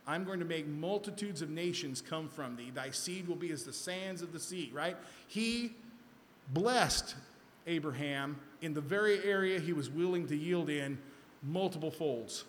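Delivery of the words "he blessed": blessed hit loud and high; emphatic. Acted. Preacher stressing God's blessing to the flock, emphatic. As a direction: drive the word blessed home.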